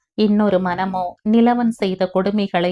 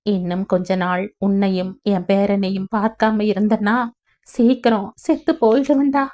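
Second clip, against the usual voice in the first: choked voice. Acted. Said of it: "தழுதழுத்த குரலில்".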